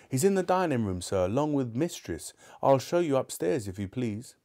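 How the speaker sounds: put-on a young maid showing the way; servant girl. Servant girl answers Scrooge.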